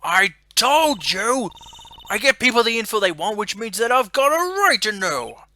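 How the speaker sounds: loud, high angry southern reporter; southern accent. Acted. Reporter arguing with the detective, loud angry southern accent. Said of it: "That southern accent can only mean".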